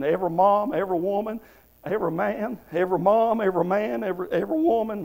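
rushed, stumbling on "every"; real tongue-tied stumble while listing. Real, not acted. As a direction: trip over "every, every woman" in a hurry. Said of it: "I'm getting tongue-tied here".

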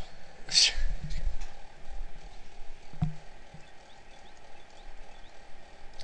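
breathy hearty laughter; long laugh. Real, not acted. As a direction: laugh for a while.

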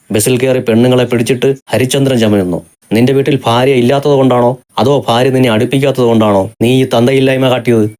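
a mild mock roar at the harasser. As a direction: voice a restrained, angry bellow. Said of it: "Kannan അലറുകയായിരുന്നു".

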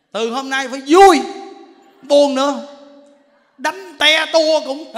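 loud, emphatic sermon voice; a preacher rousing the crowd, loud; fiery preaching. Acted. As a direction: drive the lesson home loudly. Preaching at full force.

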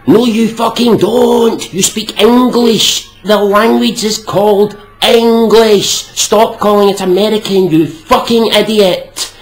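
angry rant. Acted. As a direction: tear into them, spitting out each word.

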